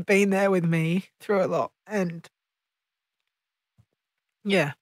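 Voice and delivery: emotional, holding back tears; after crying. Real, not acted. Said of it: "sorry for getting emotional".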